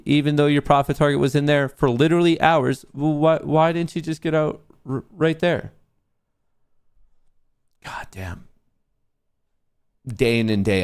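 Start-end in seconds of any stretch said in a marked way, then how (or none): 0.0-5.7 higher, sneering imitation of chat; hammed-up whiny chat commenter; mocking chat voice. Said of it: "the fucking geniuses in chat are saying". 7.8-8.5 breathy whisper under the breath; a real whisper of frustration; whispered curse. Real, not acted. Alone, exasperated after chat quote.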